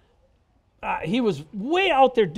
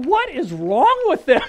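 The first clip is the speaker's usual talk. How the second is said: laughing; 3 semitones higher, 5 dB louder, slower than usual. Retold or imitated. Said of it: "My wife's going".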